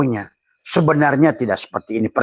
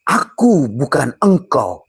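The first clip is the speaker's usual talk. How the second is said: slightly raised and slower; a hint of the rice's voice; lightly voiced rice; 4 semitones higher, 4 dB louder, slower than usual. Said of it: "Kata nasi". (suara nasi, sedikit tinggi dan lambat)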